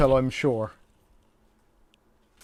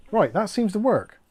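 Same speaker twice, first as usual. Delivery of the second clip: laughing; 8 semitones higher, 5 dB louder than usual. Real, not acted. Fan finally works, laughing relief.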